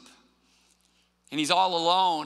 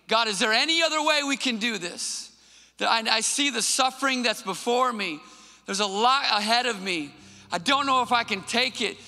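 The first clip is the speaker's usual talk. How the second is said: Jesus' anguished plea; 4 semitones higher than usual. Acted. Jesus begging God in the garden, higher anguished plea. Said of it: "he's saying".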